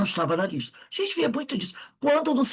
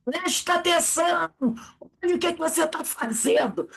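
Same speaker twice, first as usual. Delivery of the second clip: mock mother scolding, higher pitch; a hint of a scolding mum, raised pitch; 8 semitones higher than usual. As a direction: nag like a worried mother. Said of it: "ouvimos isso das nossas mães".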